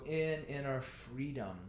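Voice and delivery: slow phrase leading toward "freedom"; stress on freedom. Shown as a demonstration. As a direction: lean past "inner" onto a drawn-out "freedom". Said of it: "inner is only describing the freedom".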